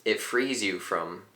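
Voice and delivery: calm teacher leading a breathing exercise; guided meditation. Acted. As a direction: talk them gently into the breath.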